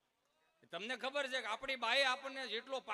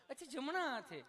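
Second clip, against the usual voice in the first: higher, sweet mock nurse voice; 4 semitones higher than usual. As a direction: play the polite nurse, pitched up. Nurse reassures Gabho. (ઊંચા મીઠા અવાજે nurse)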